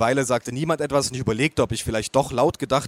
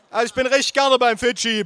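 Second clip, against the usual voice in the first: much higher, louder aunt voice, mouth full; bellowing aunt; 10 semitones higher, 4 dB louder than usual. Acted. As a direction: yell it through a mouthful of food. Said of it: "brüllte meine Tante".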